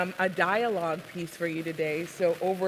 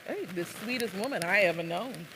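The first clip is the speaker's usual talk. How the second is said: put-on softer Southern accent; Azel; 5 dB quieter, faster than usual. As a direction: play a Southern man, kept soft. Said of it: "I'm gonna attempt what is a Southern accent".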